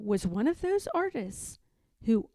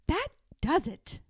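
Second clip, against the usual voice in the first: resolved; 5 semitones higher than usual. Acted. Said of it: "said Martha".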